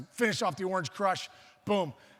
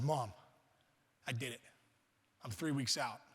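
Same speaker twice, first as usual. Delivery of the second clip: low, soft, solemn report; understated announcement; 6 semitones lower, 8 dB quieter than usual. Retold or imitated. Kid tells mom he did it, quiet and low. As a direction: break the news quietly, pitched down.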